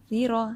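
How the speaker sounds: tongue tip lightly at upper teeth for "زیرو"; soft zaal. Shown as a demonstration. Teacher modelling "زیرو", gentle zaal. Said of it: "زال نرمی سے".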